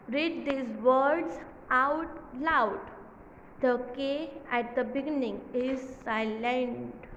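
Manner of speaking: very slow, careful reading of the exercise; slow read-aloud. Shown as a demonstration. Teacher reading the exercise aloud to children. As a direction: read the instruction word by word. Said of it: "reads instruction slowly".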